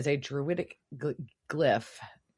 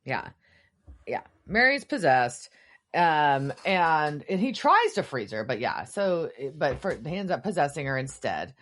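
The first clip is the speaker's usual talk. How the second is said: normal talking voice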